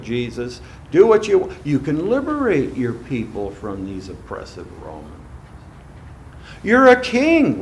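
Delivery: loud coaxing tempter; preacher playing the devil tempting Jesus. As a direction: urge him on as the devil.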